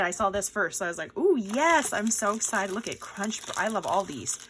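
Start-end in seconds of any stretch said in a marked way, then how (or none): 1.2-2.7 mildly excited "ooh, yes"; retelling excitement. Retold or imitated. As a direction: re-enact your first delight, lightly. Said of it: "I was so excited".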